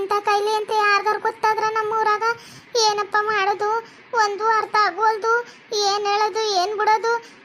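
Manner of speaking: acted wailing over a brother; tearful lament. Sister laments her sick brother's ruined life, tearful. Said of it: "ನಿಮ್ಮ ಅಕ್ಕನೂ ಅಳಕತ್ತವಳೆ".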